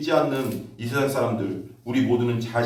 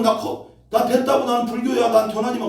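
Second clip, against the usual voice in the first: higher, louder mock refusal of an old grandmother; grandma refusing loudly; 11 semitones higher, 5 dB louder than usual. Retelling the grandmother who refused the gospel, in a higher, louder mock refusal. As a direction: brush off the preacher like a stubborn grandmother. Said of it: "입으로는".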